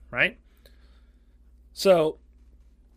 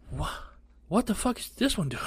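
higher, stunned what the fuck; baffled kid; 6 semitones higher, 5 dB quieter than usual. Retold or imitated. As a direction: ask it bewildered and high. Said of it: "I'm just like".

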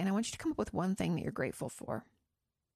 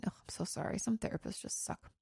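hushed aside full of sympathy; sympathetic whisper; 7 dB quieter than usual. Real, not acted. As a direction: whisper it to yourself between the lines. Whispered aside while reading question.

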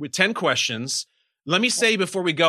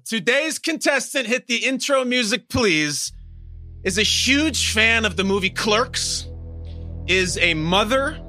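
game show host; 3 semitones higher than usual. Acted.

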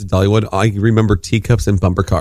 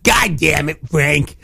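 mock exasperated dad, slightly raised and drawn out; impression of dad; 4 semitones higher, much slower than usual. Cohost mimicking friend's dad lifted-kid dismay, mock exasperation. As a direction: do a fed-up dad, stretching the curse. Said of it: "impersonation of your impersonation of your dad".

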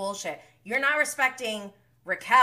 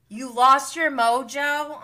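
slow, raised, incredulous echo; 3 semitones higher, 4 dB louder than usual. Real, not acted. Viewer reacting to his lost mojo, incredulous. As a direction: throw his words back in disbelief.

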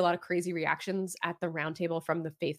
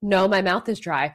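laughing quote; 7 dB louder than usual. Retold or imitated. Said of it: "she's like".

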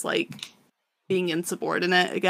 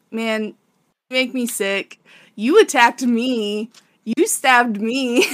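higher, louder, drawn-out mock outrage; retold indignant accusation; 3 semitones higher, 4 dB louder, slower than usual. Guts throws the attack back at his enemy, mock indignant. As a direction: accuse slowly, stretching each charge. Retold quarrel between two enemies.

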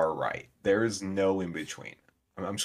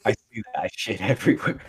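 laughing. Real, not acted. Cracking up over the shirt joke.

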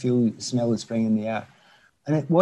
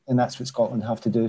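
ordinary delivery

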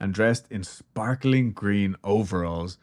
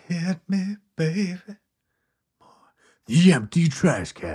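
slow, dramatic trailer announcer; movie trailer voice; 8 semitones higher than usual. Pretend. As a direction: hype it like a trailer. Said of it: "True crime voice".

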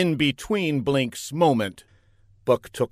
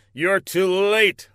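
raised, drawn-out taunt with mild triumph; triumphant hero; 7 semitones higher, slower than usual. A narrator's reading. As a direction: crow it slowly, a touch of mock-heroic gloating. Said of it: "laughed Buck".

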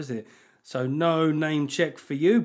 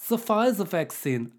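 higher, slow mock-German accent; 4 semitones higher than usual. Host introducing the fancy Pfizer jab in German accent. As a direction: put on a comic German accent, drawn out. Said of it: "giving it a German accent".

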